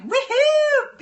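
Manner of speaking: loud high woohoo; over-the-top cheer; excited whoop. Retold or imitated. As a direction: whoop it out like a wild fan. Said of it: "and I'm like".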